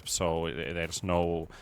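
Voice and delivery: flat Finnish English monotone, no enunciation. Shown as a demonstration. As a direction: drone it out evenly in a Finnish English accent. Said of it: "I need to talk in a very monotone voice".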